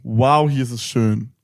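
slow, awed wow; quoting her own amazement; amazed. Retold or imitated. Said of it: "und dachte".

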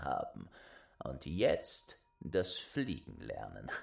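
slow, darkly amused hint; sinister stranger. Acted. Stranger showing the boy the gallows. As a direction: point out the gallows, slyly.

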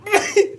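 a small, cute sneeze; sneezing. Real, not acted. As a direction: let out a little sneeze. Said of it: "ein niedlicher Nieser".

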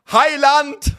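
very high, drawn-out mock bellow; imitated shout. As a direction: cry it out grandly like a loud actor. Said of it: "breitet seine Hände aus und schreit".

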